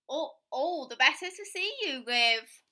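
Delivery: loud, slow sly wolf; barely hiding the wolf; sly wolf granny. Acted.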